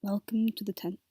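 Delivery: whispered greeting, hiding under the blankets; hushed whisper under covers. Real, not acted. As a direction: keep it to a breathy whisper so nobody hears. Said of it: "hiding under my covers".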